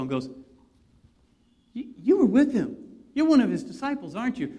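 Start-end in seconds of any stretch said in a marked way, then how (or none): 1.7-4.6 higher, louder, pointed accusation; accusing servant girl. Retold or imitated. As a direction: catch him out like a nosy girl.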